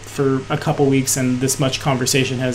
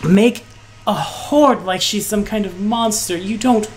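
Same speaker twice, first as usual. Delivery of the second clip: lightly voiced figure, pitch lifting on accusations; woman in the clouds, disapproving; 4 semitones higher than usual. Woman doubting they want their friend back, disapproving. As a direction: press the guests with incredulous emphasis.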